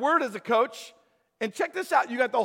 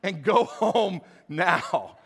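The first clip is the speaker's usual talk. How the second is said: mock GPS order; 4 dB louder, slower than usual.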